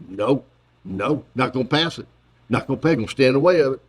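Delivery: stubborn senator shutting down a bill; Mitch McConnell impression. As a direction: dig in and refuse. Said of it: "impersonation of Mitch McConnell".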